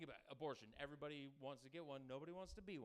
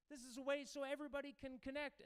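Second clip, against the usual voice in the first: higher, put-on nerdy inventor voice; mock tech nerd; 12 semitones higher, 4 dB louder than usual. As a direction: ham up the naive app maker. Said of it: "mocking Facebook founder".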